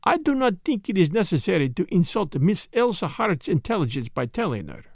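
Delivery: put-on lightly accented, polite detective; courteous, measured foreign gentleman, lightly voiced; Poirot. Detective soothing a startled wife, lightly voiced courtesy.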